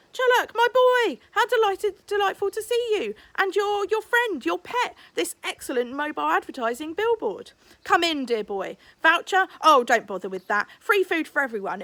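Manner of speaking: high, loud, over-the-top host voice; a showman beaming at a paying crowd; Rambushy gushing loudly at Chullock, high showman voice. Acted. Effusive restaurateur greets guests.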